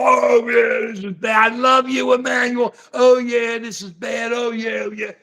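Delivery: lightly voiced old-timers grousing; mildly hammed-up complaining old guy; old diner guys. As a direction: play the diner buddies chiming in. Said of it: "they're gonna sit there and go".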